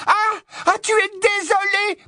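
very high, scornful shriek; sarcasme furieux. Acted. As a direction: throw his apology back at him. Hermione raille les excuses de Ron. (raillerie hurlée, suraiguë)

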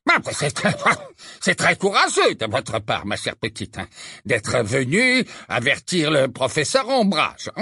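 jovial patronizing minister; hearty fake-kind official; Fudge's voice.

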